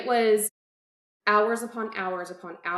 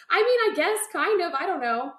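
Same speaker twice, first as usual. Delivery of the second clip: laughing sheepishly; 9 semitones higher than usual. Real, not acted. Laughing at being called nanny lady.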